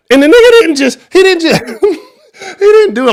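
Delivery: high, loud, breaking into laughter; laughing. Real, not acted. Cracking up while telling fans how bad the quarterback played.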